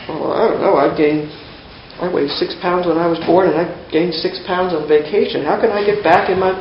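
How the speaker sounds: lightly acted confusion; baffled muttering. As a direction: mull it over as a too-literal listener. Acted baffled, too-literal listener.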